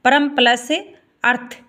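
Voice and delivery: slow, syllable by syllable split of परम plus अर्थ; slow teacher demo. Shown as a demonstration. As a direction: break परम plus अर्थ apart slowly for the class. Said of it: "परमार्थ".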